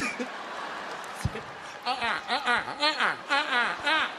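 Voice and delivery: excited uh-uh. Retold or imitated. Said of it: "He got excited. He's like".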